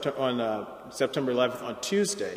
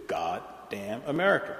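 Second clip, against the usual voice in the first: a measured, softer God, pause, damn, pause, America; preacher's concluding pronouncement; 3 semitones lower, 5 dB quieter than usual. Retold or imitated. Lecturer quoting the preacher's conclusion, God and damn spaced out as a weighty pronouncement. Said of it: "and concluded".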